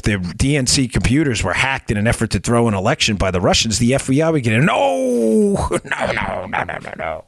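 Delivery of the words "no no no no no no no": rasping creature voice, fading to nothing; Gollum voice. Acted. Talk show host mocking the FBI idea in a Gollum voice. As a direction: hiss no over and over like Gollum. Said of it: "In my best Gollum voice".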